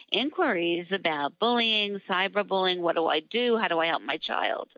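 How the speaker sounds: hoarse, fading voice; a real voice going hoarse; losing voice. Real, not acted. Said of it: "I'm losing my voice".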